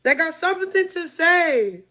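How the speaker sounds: no teeth, lips slack on every word; toothless. Real, not acted. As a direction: talk with your teeth taken out. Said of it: "let me take my teeth out".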